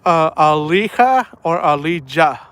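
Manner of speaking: first Alija said a-LEE-ha, then Alija said a-LEE-zha; weighing Alija as a-LEE-ha against Alija as a-LEE-zha; two pronunciations. Shown as a demonstration. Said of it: "trying to pronounce this girl's name".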